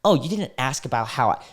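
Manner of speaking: a hint of a needy whiny voice; mock whiny girl. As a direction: mimic someone fishing for attention, lightly. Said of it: "anyone who's like".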